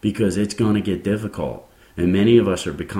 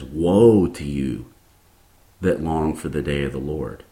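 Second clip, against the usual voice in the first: scripture proclamation; 3 semitones lower, 3 dB louder than usual. Acted.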